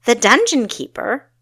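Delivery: gasped in alarm. A narrator's reading. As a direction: blurt it out in sudden fear. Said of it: "Kessa gasped".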